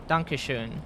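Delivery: Dankeschön said softly as dank-e-schön, falling; German word demo. Shown as a demonstration. Teaching chat a polite thank you, soft. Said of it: "it's written like this".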